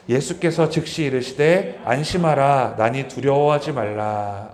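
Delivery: slow, measured reading of the verse; scripture reading. Acted. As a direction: read the verse aloud with the church.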